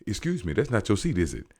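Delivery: fast, smug mock of a rude passenger; snide quote. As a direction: rattle it off with a grin. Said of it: "this man just coming at".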